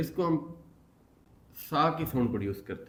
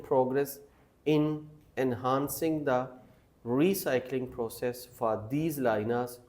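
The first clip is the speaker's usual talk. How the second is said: slow model reading; much slower than usual. Shown as a demonstration. Teacher reading the practice passage aloud slowly. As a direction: read each phrase slowly and clearly. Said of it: "you have to repeat after me".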